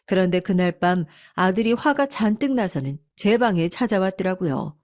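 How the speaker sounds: usual speaking voice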